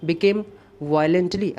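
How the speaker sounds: very slow reading of the question. Shown as a demonstration. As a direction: read the sentence out for students. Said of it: "fifty three देखते हैं". (बहुत धीरे पढ़ना)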